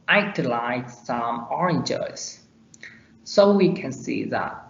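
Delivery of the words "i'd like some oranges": "I'd" contracted, would shrunk to a d; slow line with "I'd" as one syllable; weaker form. Shown as a demonstration. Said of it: "we can use weaker form sometimes".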